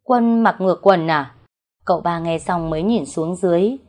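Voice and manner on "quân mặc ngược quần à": moderately raised voice; lightly projected, acted call; calling out loudly. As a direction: call out a teasing question. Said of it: "mợ cả liền nói lớn".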